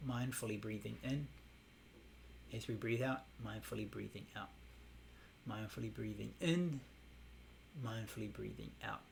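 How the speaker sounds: soft, calm guided meditation phrasing; meditation cue. Shown as a demonstration. Teacher demonstrating the inner phrase, softly and calmly. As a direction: lead the breath quietly and evenly. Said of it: "we're gonna think to ourselves".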